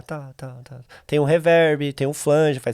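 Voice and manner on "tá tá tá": delay echo. Shown as a demonstration. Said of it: "que ele fala tá".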